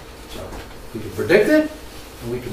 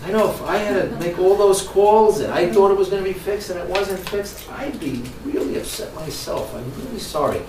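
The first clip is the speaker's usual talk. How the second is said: a touch of a caring agent saying sorry; soothing customer service apology; mild apologetic rep; 3 semitones higher than usual. Retold or imitated. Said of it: "Her immediate response is".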